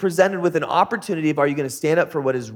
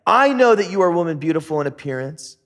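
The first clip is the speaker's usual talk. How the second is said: a touch of worry, quicker and urgent; worried; faster than usual. Acted. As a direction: rush it out as a worried husband. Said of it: "He's worried. He says".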